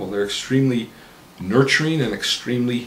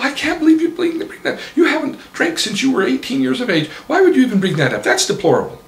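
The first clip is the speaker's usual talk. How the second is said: higher, louder mock-angry wife; mock outburst; 7 dB louder than usual. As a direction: blow up like the scandalized wife. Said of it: "she blew up".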